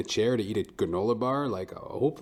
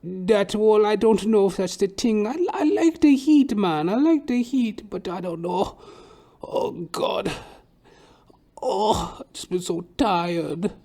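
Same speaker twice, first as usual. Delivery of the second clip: much higher, drawn-out weary whine; old Trinidadian hairdresser; 10 semitones higher, 3 dB louder, slower than usual. Retold or imitated. Hairdresser tells client he likes the heat, tired whine. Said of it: "eccentric old Trinidadian dude".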